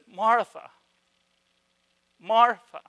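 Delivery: gently calling her name twice; kind tone. Retold or imitated. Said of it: "the kindness in his words, the way he says it, his tone".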